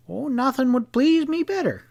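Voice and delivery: very high, languid upper-class drawl; a high, lazy English dandy drawl. A narrator's reading. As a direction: purr it out with lazy delight. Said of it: "drawled the Englishman".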